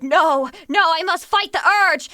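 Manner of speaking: mock-heroic protest, pushing back; resisting YouTuber. Streamer mocking a YouTuber fighting his alter ego, mock-dramatic. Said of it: "And he's like".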